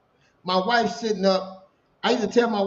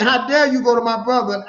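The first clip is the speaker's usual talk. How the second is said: retold angry; 3 semitones higher, 5 dB louder than usual. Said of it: "I was mad about that".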